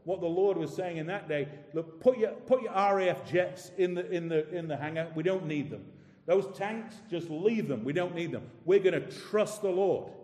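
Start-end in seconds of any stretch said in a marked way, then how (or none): 1.8-10.1 loud, confident call to stand down the jets; rally them to trust boldly; bold declaration. Retold or imitated. Preacher voicing a leader who grounds the army in faith.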